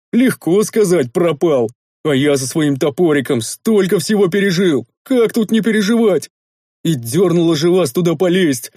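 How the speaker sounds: a lightly voiced burly grumbler, aggrieved; grumbling big man. Rikar grumbles at his master over the cursed ruins.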